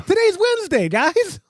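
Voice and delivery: dawning surprise; surprised at himself; sudden realization. Real, not acted. Realizing it's recording day.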